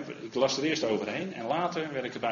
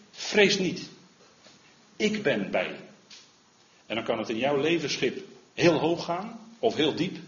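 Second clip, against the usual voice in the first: raised, ringing preacher's voice, higher and louder; fervent sermon climax, pitched up and loud; preaching at full force; 3 semitones higher, 5 dB louder than usual. Acted. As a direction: proclaim it to the whole church.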